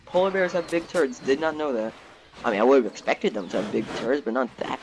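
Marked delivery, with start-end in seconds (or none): none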